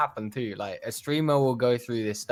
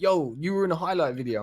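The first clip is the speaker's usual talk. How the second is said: imitated excited fan; 5 semitones higher, faster than usual. Acting out excited viewers in stream.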